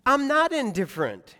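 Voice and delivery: firm, spaced-out divine reassurance; God answering. Acted. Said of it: "God says".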